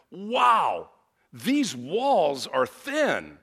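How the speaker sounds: retold shocked wow, drawn out slowly; shocked exclamation. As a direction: imitate her startled, exasperated gasp. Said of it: "she sounded shocked, almost exasperated".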